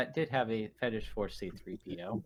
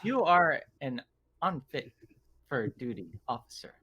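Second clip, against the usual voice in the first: mock reprimand; 3 semitones higher, 5 dB louder than usual. Player mimicking people who judge the commander, mock reprimand. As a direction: deliver a mock official verdict, word by word. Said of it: "So they're like".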